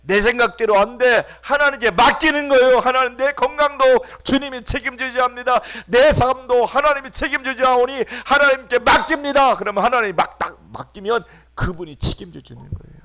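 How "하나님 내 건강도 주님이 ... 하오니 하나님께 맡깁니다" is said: loud fervent prayer voice, pitched high; praying aloud. Acted. Preacher acting a believer praying aloud. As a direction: cry out the prayer to God.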